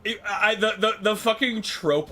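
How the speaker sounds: stretched slow and loud; drawn-out emphasis. Real, not acted. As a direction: drag out the words eagerly. Excited aside about shadow clones.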